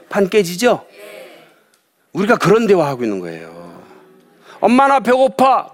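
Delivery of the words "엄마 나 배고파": put-on high, slow whiny child voice; child whining. Preacher voicing a hungry child to mom. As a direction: whine it like a hungry little kid.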